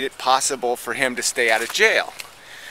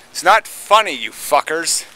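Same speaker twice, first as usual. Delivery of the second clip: angry outburst; 4 dB louder than usual. Real, not acted. Ranting at people who laugh it off, angry and loud. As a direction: bark it out at them.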